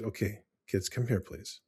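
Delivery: put-on softly and calmly calling the kids over. Dad calling the kids in after the tie-dye mess, calm and soft. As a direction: keep it soft and even, no anger showing.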